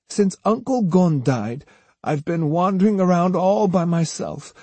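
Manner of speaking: high, swooping granny voice feigning sincerity; plaintive old woman. A narrator's reading. Osugi sends Jotaro with false peace to Otsu, plaintive.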